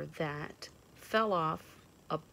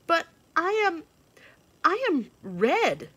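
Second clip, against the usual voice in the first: announcing cardinal; 12 semitones higher, 10 dB louder than usual. A narrator's reading. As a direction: declare it grandly. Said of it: "announced the cardinal".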